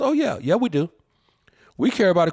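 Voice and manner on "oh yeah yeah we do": sarcastic. Real, not acted. Sarcastic retort to critics.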